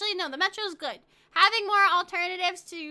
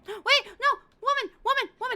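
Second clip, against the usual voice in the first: high, loud call across the room; 9 semitones higher, 4 dB louder than usual. Real, not acted. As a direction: shout to get her attention. Calling out to game character.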